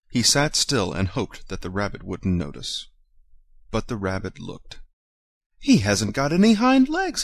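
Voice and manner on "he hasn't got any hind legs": high, louder taunting call. A narrator's reading. Wild rabbit calling out that the toy has no legs. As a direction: shout it across to the others. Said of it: "he called out".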